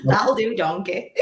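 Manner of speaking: rough attempt at a Scottish ogre; half-hearted ogre impression; Shrek. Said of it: "Do it again".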